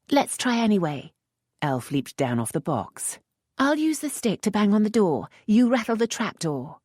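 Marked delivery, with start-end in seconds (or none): 0.1-1.1 a touch higher, hushed question; lightly voiced young lady. A narrator's reading. Lisette voiced by narrator. 3.6-6.8 a touch higher, hushed question; lightly voiced young lady. A narrator's reading. Lisette voiced by narrator.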